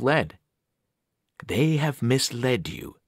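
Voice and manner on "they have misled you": slow and heavy; sinister voice from the pit; cold ancient voice. Acted. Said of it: "The voice felt ancient, cold, and heavy".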